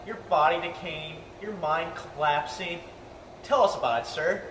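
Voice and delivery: mock solemn crone. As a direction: intone it darkly like a creepy old hag. Mock solemn old person speech.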